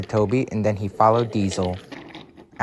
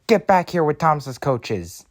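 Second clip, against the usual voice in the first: higher, mildly cross order; a touch of indignation, pitched up; Stanley; 4 semitones higher than usual. Acted. Engine ordering the coach thief back, mildly cross. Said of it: "said Stanley crossly".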